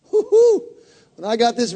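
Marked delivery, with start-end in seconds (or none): 0.1-0.6 high whooping woo-hoo; joyful whoop. Real, not acted. Preacher whooping over his revelation, joyful and high. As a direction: let out a celebrating whoop.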